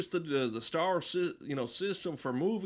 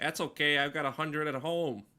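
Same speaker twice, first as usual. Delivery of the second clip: put-on accidental Canadian-sounding accent; 3 semitones lower than usual. Telling a joke about two elephants, voicing the second elephant: Canadian-sounding accent. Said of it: "My my Jewish elephant impression sounds like a Canadian".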